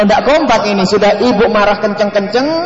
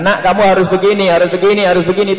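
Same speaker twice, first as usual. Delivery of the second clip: louder, repetitive parental ordering; insistent nagging; 4 dB louder than usual. Acted. Parent telling child what must be done, insistently.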